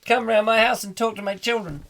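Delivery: high-pitched mock adoration; gushing fan. Fan praising Englishman's accent, high mock gushing. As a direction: gush in a put-on high voice. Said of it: "saying things like".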